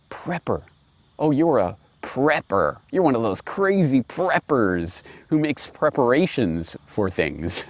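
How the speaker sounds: sneering mock quote of critics. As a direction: sneer it back like the media does. Mocking the mainstream media's sneer.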